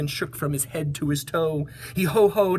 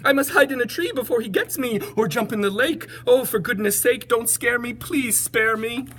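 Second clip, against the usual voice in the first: high, louder panicky plea; frightened elephant; 8 semitones higher, 4 dB louder than usual. Acted. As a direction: panic and beg to be spared.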